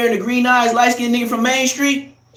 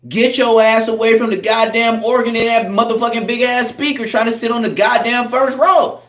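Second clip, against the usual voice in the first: rant at mama; 4 semitones higher, 4 dB louder than usual. Acted. Ranting at churchgoing mother.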